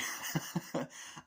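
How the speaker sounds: short breathy cackle; mock evil laugh; imitated villain chuckle.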